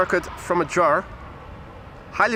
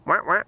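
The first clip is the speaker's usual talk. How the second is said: short nasal-free quacking "wah, wah" like a duck; mock duck quack. Streamer greeting the ducks with a mock quack. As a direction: quack back at the ducks playfully. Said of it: "I'm just saying hi".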